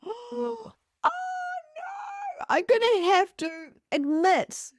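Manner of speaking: gasp, then high, slow dismay; hammed-up horror, dragging out the words; mock dread. Realising she must confess to Emma's mum, mock dread.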